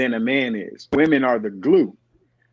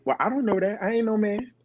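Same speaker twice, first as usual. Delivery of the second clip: aunt voiced; 7 semitones higher, 3 dB quieter than usual. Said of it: "I used to have my aunt say".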